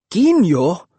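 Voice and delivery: loud, high scornful shout. A narrator's reading. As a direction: shout it back in disgust. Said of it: "I shouted".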